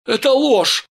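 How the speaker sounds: high, loud outraged cry; shouting. A narrator's reading. Steve defends Vera to the gang, shouting. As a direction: shout the denial with full force. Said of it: "закричал Стив".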